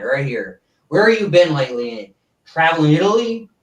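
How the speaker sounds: a hint of a stiff variety-show host; lightly voiced TV host introducing a guest; mild old-time showman announcing to the audience; Ed Sullivan impression. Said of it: "I'd like to do my Ed Sullivan".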